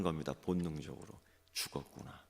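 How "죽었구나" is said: breathy hushed whisper of despair; whispered thought. Acted. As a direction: whisper it as if doom is certain. Rabbit's inner thought when caught. (속삭이듯 체념하는 목소리)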